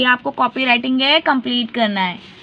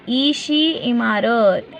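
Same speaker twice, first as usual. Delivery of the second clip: slow phonics reading; much slower than usual. Shown as a demonstration. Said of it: "ईशी काय बोलणार".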